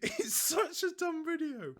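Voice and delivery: high, helpless real laughter through the words; laughing. Real, not acted. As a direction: try to talk while cracking up. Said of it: "I kept laughing".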